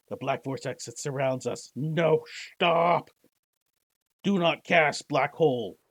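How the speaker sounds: high, loud desperate pleas that build to a scream; panicked girl crying out. Acted. Girl screaming at the caster to stop, panicked. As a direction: beg her to stop as the void closes in.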